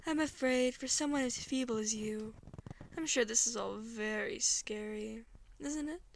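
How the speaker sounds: lightly voiced condescending deity; soothing but threatening. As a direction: pity a feeble human with a hint of menace. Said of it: "soothing, in a threatening sort of way".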